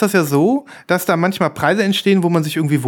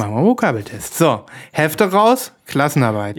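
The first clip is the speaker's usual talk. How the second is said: strict teacher; 2 semitones lower than usual. Pretend. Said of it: "Der Lehrer kommt".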